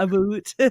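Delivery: "a boot" for "about", Canadian-style; imitated Canadian "a boot"; mock Canadian pronunciation. Shown as a demonstration. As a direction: say "a boot" with a long "oo". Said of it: "we don't say a boat".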